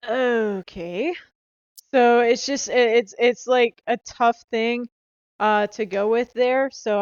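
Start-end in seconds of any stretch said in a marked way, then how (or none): 0.1-1.1 drawn-out, uncertain okay with a rising end; hesitant, questioning lift; awkward. Retold or imitated. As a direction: imitate an awkward reply after being turned down. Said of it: "I've been a little awkward".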